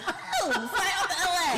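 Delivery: high, laughing disbelief; retold astonishment. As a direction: re-enact being floored by the offer. Retold reaction to producers' call.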